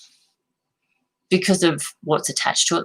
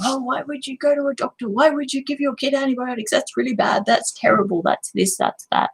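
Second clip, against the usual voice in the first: judgmental; 8 semitones higher than usual. Retold or imitated.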